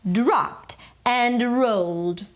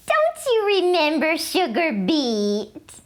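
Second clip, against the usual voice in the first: lightly voiced mama; 6 semitones higher than usual. A narrator's reading. Mama speaks to Skippy.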